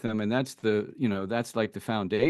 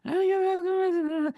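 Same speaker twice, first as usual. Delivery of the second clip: dismissive brush-off. Retold or imitated. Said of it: "she's like".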